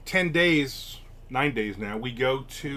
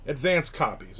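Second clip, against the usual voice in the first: a light imitation of a surprised author; retold surprised reply; 4 semitones higher, 4 dB louder than usual. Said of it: "And he said".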